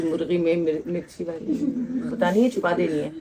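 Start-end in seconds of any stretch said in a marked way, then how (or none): 0.0-1.5 dropping to a hush, as if sharing a secret; softer, confiding the hidden chilli; low, hushed secret-telling. Acted. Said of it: "जो तुमने मुझे खामोशी से बताई थी".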